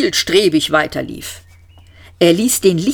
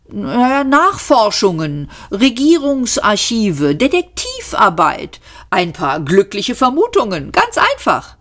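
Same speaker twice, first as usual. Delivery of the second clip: offhand list, leaping high at the end; a hint of breezy bragging; lightly voiced breezy space adventurer; 5 semitones higher than usual. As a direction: toss off each item as if it were nothing.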